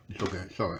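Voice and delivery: talking while fitting dentures; loose dentures. Real, not acted. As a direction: mouth full of dentures. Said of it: "I'm just trying to put my teeth in".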